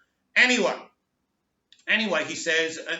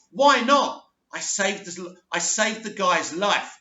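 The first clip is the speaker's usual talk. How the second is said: indignant protest; 3 semitones higher, 5 dB louder than usual. Retold or imitated. Son arguing back to his adopted father, indignant. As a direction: retell a son protesting, punching the opening. Acted protest in retold quarrel.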